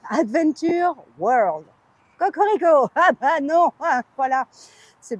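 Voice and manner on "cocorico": playful, punchy "cocorico"; mock rooster crow. Mock patriotic rooster cry.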